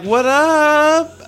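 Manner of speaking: high, loud mock-bro "What up?"; bro greeting. Boyfriend in bed greets girlfriend, hammed-up bro voice. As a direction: toss off a cocky hello. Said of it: "I might be like".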